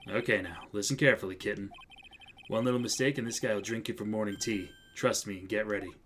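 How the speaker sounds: low, soft, unhurried mentor voice; cool, menacing mentor. Acted. Mentor warning his young colleague before testimony, coolly. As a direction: coach the rookie coolly, down low.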